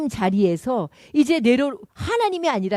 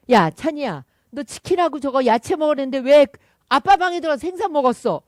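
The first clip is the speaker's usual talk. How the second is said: louder scolding mom's voice; angry mother; 2 semitones higher, 5 dB louder than usual. Retold or imitated. Mother scolds Chan for eating father's fish, louder. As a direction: scold the child for sneaking the fish. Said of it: "엄마가 화가 난 거죠".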